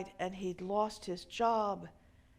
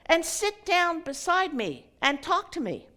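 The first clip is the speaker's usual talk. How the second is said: raised invitation; 8 semitones higher, 8 dB louder than usual. Acted. Elderly man invites the drunk.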